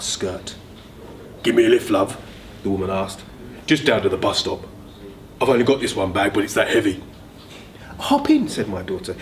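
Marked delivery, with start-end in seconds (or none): 1.4-7.0 big woman. Acted. Big woman asks for a lift. 8.0-8.5 cheerful daughter. Acted. Daughter offers a lift.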